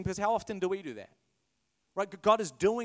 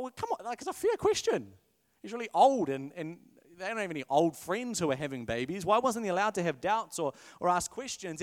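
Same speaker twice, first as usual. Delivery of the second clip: indignant listener. Retold or imitated.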